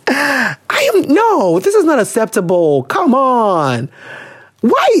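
high-pitched indignant protest; amused outrage. Real, not acted. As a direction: protest in exaggerated disbelief, voice way up. Outraged reaction to the letter.

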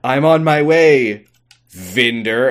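mock-heroic declaration; dramatic quote. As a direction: deliver it like a big twist reveal.

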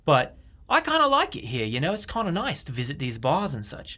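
put-on Australian accent. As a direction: play a visiting Australian. Bit as an Australian visitor.

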